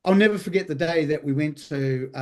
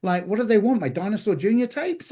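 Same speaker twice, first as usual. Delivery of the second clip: exasperated disbelief; 5 semitones higher than usual. Retold or imitated. Retold reaction to burglary.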